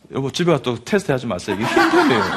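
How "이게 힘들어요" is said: mock whimper of a hurting child, pitched way up; high, pained child's voice; suffering child. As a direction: squeak it out like a little kid in pain. Child's pain acted out.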